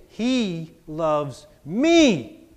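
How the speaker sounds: drawn-out He loves me; slow repeated affirmation. Shown as a demonstration. Pastor leading the church in a slow affirmation, slow. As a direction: say it slowly, letting it sink in. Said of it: "And now say".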